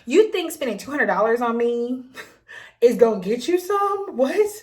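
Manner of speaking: laughing through mock outrage; laughing disbelief. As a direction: laugh it off, incredulous. Mocking his expectation.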